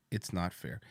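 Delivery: soft, low mock lament; mocking hush. Echoing Thomas's complaint in a soft mock lament. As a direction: mutter it, mournful and mocking. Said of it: "mock echo of Thomas".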